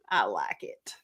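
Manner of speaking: soft whispered confession. Real, not acted. Confiding her own version of Jesus, whispered. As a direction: whisper it like a little secret.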